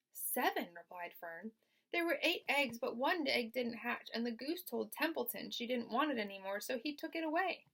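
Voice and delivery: put-on chatty young girl. Fern voiced.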